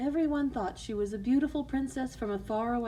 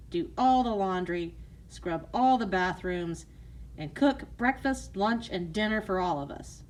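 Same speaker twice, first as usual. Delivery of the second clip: bossy stepmother; 4 dB louder than usual. Acted. Stepmother bossing.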